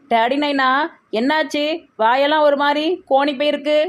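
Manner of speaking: high-pitched, worried coaxing; concerned questioning. Acted. Child asks upset Daddy Naina what happened, concerned questioning. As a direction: ask anxiously, pitched well up.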